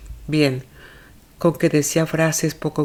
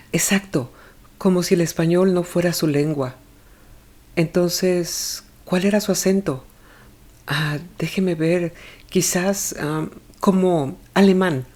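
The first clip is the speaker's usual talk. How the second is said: self-reproaching mother; 3 semitones higher than usual. Acted. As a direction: echo his words as a nervous mother would. Olga echoes and recalls.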